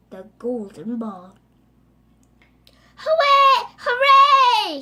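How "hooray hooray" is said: much higher, loud cheering; joyful shout. Acted. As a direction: cheer like a delighted princess. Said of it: "shouted Poppy".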